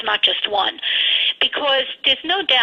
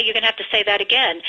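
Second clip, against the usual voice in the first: mildly calm, firm and quick teacher tone; a hint of a patient teacher setting the rule; lightly calm repeat of "You're gonna have to say that again"; faster than usual. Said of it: "I just very calmly say".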